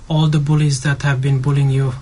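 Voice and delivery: ordinary talk, nothing marked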